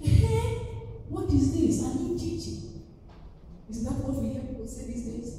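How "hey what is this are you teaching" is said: raised-pitch, mildly astonished questioning; amazed. Retold or imitated. Synagogue crowd reacts to the new teaching, amazed. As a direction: imitate an onlooker taken aback. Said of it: "They were all amazed".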